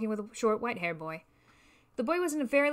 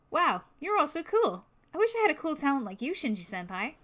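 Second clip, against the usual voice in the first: put-on gushing excited kid; 5 semitones higher, 3 dB louder than usual. Excited boy gushes at biker.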